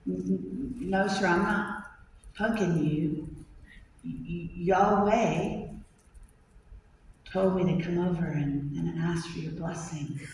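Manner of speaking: timid suitor stammering to an angry father; stammering nervous kid. Acted. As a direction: stumble over the words, terrified. Scared boy stammers his answer.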